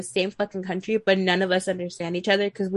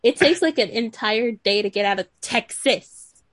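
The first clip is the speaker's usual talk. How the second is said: exasperated outburst; 4 dB louder than usual. Retold or imitated. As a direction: blurt it out, half laughing, fed up. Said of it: "And I was like".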